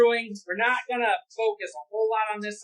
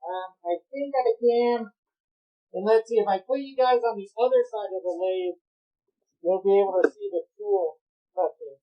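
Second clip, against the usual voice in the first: muffled by respirator. Real, not acted. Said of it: "my voice is gonna get muffled".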